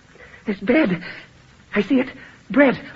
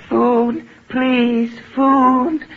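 rising plea for food, louder toward the end; desperate begging; 5 dB louder, much slower than usual. Acted. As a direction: beg like a starving man. Starving man begging.

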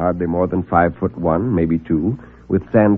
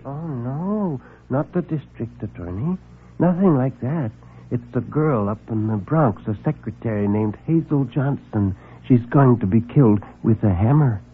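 soft, halting, much quieter; timid little man; 5 dB quieter than usual. Acted. Nervous visitor confessing to reporter, soft and halting. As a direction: stammer it out, shy and small.

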